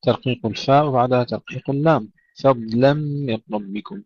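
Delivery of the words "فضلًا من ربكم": فضلًا with long thick ḍ between light f and l; prolonged heavy dad. Shown as a demonstration. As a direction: stretch the dad in فضلًا, keep fa and lam thin. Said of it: "استطالة الضاد مع تفخيمها". (فضلًا بضاد مستطيلة مفخمة ولام مرققة)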